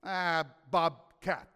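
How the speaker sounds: slow, stretched "Ah, bobcat"; drawn-out discovery. Pretend. God finds the name, slow realization. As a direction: stretch "bobcat" as the idea dawns. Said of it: "That's better".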